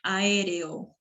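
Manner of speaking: Aéreo with each vowel its own syllable; hiatus demo. Shown as a demonstration. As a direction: break Aéreo into a-é-re-o. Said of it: "Se rompe sílabas". (Aéreo separado sílaba por sílaba)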